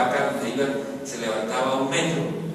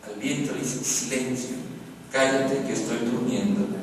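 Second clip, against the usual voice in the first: calma tranquila; 3 semitones lower, 5 dB quieter than usual. Acted. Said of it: "Jesús dice que tranquilo".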